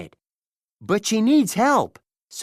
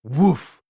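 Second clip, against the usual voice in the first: dog bark; 3 semitones lower, 4 dB louder than usual. Acted. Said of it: "barks Nana".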